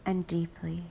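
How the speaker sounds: whispered breathing cue; soft spa whisper. Acted.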